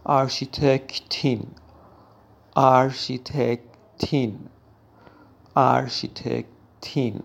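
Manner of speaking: آرشیتکتین with a clear -in ending; German word drilled. Shown as a demonstration. Teacher drilling the feminine form for learners. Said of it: "معمار خانوم".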